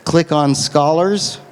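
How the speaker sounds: slow, spaced-out instruction; slow dictation. Real, not acted. Lecturer repeats website directions to the audience, slow dictation. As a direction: give it at note-taking speed.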